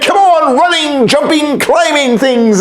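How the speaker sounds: high, lively calling to the animals; rally the animals with energy; high excited summons; eager call. A narrator's reading. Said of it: "God called to the land".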